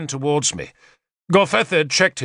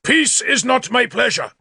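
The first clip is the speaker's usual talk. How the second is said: high, raised, indignant declaration; angry outburst; 11 semitones higher than usual. A narrator's reading. King refusing Galahad's offer, high angry declamation. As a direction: throw the offer back angrily.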